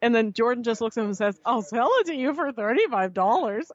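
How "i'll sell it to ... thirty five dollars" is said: lightly squeaky mock-teen offer; imitated wobbly teenage voice; breaking adolescent voice. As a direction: let the pitch crack upward like a fourteen-year-old. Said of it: "his voice is, like, breaking like he's fourteen".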